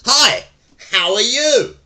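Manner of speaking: loud cheerful hello; nice in a loud voice. Shown as a demonstration. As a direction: greet a friend across the room. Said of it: "nice in a loud voice".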